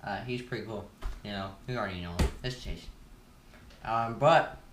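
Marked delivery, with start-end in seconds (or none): 1.2-4.6 talking with gum in mouth; chewing gum. Real, not acted. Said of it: "I got gum in my mouth, so that's why I'm talking so weird".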